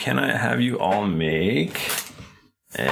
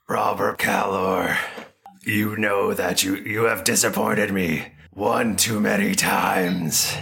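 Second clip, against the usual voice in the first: slow, menacing whispery voice; Pyre voice; slower than usual. Acted. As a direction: breathe the threat out slowly. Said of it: "I have to do this terrible voice".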